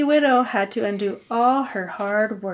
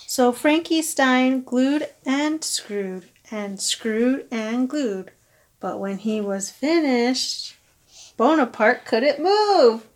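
put-on reading to children; slower than usual. A narrator's reading. Reading picture book aloud.

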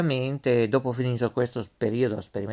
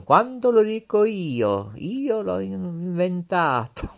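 light TV host impression, higher; Pippo Baudo; 4 semitones higher, slower than usual. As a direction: quote the showman grandly. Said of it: "Diceva Pippo Baudo".

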